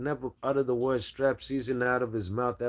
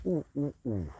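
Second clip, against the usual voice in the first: excited oohs; 4 semitones higher, 6 dB quieter than usual. Real, not acted. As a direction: coo with glee at the news. Reacting to a chat message.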